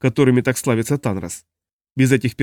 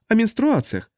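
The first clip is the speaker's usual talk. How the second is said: high, helpful prompt; supply the word brightly; Makri prompting; 9 semitones higher than usual. A narrator's reading. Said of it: "подсказала Макри".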